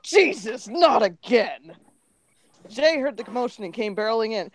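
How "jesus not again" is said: groan. Acted. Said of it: "paused and groaned".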